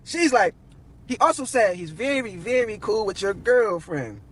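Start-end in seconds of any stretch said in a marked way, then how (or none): 1.1-4.2 slow, drawn-out insinuation; pointed, knowing tone. Retold or imitated. Lauren hinting at the girlfriend, slow and pointed. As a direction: let the hint sink in slowly. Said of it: "Lauren had a little funny face when she said this".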